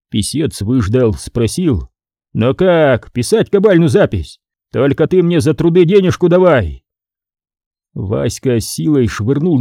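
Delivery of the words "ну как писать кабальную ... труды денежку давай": raised, insistent voice; greedy clerk asking his fee; pressing scribe. Acted. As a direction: press him to sign.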